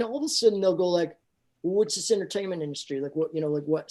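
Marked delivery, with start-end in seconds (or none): 1.6-3.9 a hint of a Southern-accented official. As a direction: question them as a Southern border guard. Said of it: "I always put on a Southern accent".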